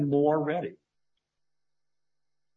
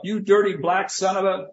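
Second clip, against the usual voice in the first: higher, louder mock yell at a player; staged yell; 8 semitones higher, 5 dB louder than usual. The speaker playing a rival player yelling a slur, mock yell. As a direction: act out the insult as a hot-headed shout. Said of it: "I yell".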